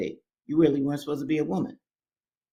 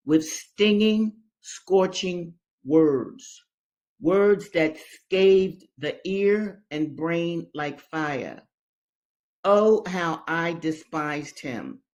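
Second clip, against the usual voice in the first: very slow, every word dragged out; slow dramatic reading; much slower than usual. Acted. Teacher reading the master's cruelty aloud, slow and heavy. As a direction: lean on each bitter word.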